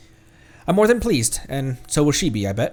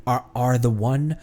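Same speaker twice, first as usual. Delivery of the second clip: hushed genie voice. Acted.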